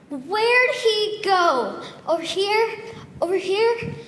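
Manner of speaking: put-on very slow, drawn-out old woman hunting; a hint of a prowling old woman; searching old lady. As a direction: creep around hunting for the boy.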